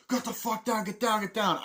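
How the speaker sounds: high, urgent mock yell; acted soldier's order. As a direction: shout them down like a film soldier. Acts out soldiers ordering man down.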